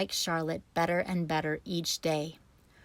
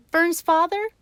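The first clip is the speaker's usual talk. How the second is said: sobbing; 11 semitones higher, 8 dB louder than usual. A narrator's reading. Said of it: "sobbed Wilbur".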